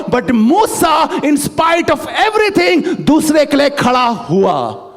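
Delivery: drawn out, slow and shouted; preaching climax. Acted. Pastor proclaiming Moses stood up anyway, slow and shouted. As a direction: stretch each word to the crowd.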